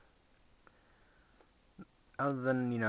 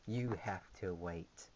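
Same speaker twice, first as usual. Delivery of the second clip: slow, soft whisper; playful hushed aside; 4 semitones lower, 7 dB quieter, slower than usual. Acted. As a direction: whisper it like a secret tease. Teasing a viewer, hushed.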